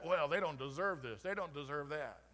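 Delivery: a hint of a grudging complainer; mock entitled mindset. Pastor mimicking a grudging attitude, light mock complaint. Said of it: "this mindset".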